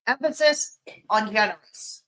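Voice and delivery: "generous" set apart after a short pause; pause, then land on "generous"; stress on generous. Shown as a demonstration. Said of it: "Put the emphasis on generous".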